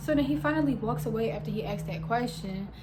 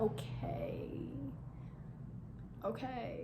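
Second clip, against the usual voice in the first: whispered okay; 11 dB quieter, much slower than usual. Retold or imitated. Stunned reply.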